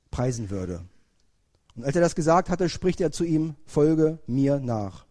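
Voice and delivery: measured, solemn Bible reading with slowed words of Jesus; solemn lectern reading; scripture reading. Acted. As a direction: read the gospel out to the congregation. Reads the Bible passage aloud.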